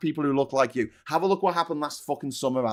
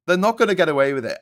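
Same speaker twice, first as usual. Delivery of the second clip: faster, louder defiant repeat; rising defiant insistence; louder vow; 5 dB louder, faster than usual. Real, not acted. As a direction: hammer the promise home.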